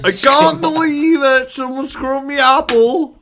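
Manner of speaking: high, loud, stretched-out Cornish accent; Cornwall accent. Shown as a demonstration. Host outdoes his friends, yelling a Cornish accent. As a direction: holler it slowly in a West Country accent. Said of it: "Cornwall accent".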